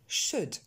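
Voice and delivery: "Should" with a short eu-like vowel, silent L; pronunciation model. Shown as a demonstration. Teacher drilling words never said as ould, pronunciation model. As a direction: say "Should" with no L and no long ou. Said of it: "Vous remarquerez que le L".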